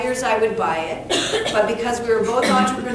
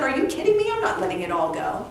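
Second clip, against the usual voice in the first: indignant disbelief; 5 semitones higher, faster than usual. Retold or imitated. Her indignant retort to universe.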